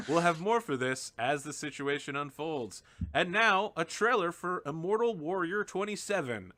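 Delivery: lightly voiced TV newsreader; cheesy news read, composed again; parody news anchor.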